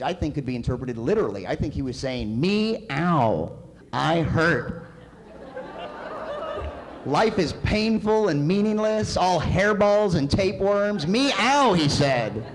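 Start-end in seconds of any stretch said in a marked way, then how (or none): 2.4-11.7 high, loud, slow tragic wail; mock anguished cat. Cat moaning his woes to his owner, hammed-up anguish. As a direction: wail the cat's despair in mock tragedy. Comic voicing of cat's lament.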